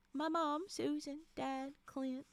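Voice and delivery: introductions with a Southern twang; Southern accent. Acted. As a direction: put on an American Southern accent. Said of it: "Here comes the Southern".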